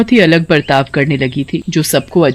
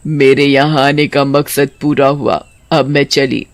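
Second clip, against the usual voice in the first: witch farewell; 9 semitones higher than usual. Acted. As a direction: say goodbye gently but firmly.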